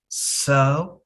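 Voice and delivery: Celebration broken into ce-le-bra-tion with pauses; syllable by syllable. Shown as a demonstration. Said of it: "and we have syllables".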